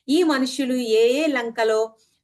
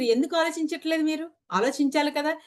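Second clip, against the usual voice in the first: higher-pitched, exasperated quoted challenge; reproachful questioning; 5 semitones higher than usual. Retold or imitated. Masters asking listeners why they don't think, reproachful questioning. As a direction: challenge them as if quoting a teacher. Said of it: "మీరు ఆలోచించలేరా ఆ మాత్రం అని అడుగుతున్నారు".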